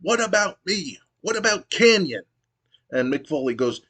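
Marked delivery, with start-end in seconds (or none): 0.0-2.2 much higher whiny pleading; pitched-up desperate heel whine; Kanyon's plea. Retold or imitated. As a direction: whine for attention like a spurned wrestler. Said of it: "And Kanyon goes".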